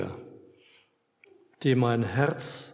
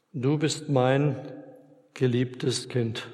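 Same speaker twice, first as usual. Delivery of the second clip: tender assurance; much slower than usual. Acted. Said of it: "er sagt zu mir immer wieder".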